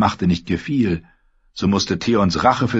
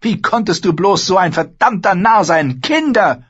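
much higher, louder cry of disgust; sister's outraged cry, raised and pitched up; appalled rebuke; 13 semitones higher, 5 dB louder than usual. Acted. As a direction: scold him, breaking on the last word. Asha scolding in disbelief.

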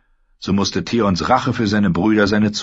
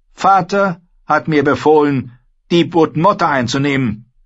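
higher, louder snapping retort; hissed at him; 9 semitones higher, 5 dB louder than usual. Acted. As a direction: spit the words at him. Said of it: "fauchte sie ihn an".

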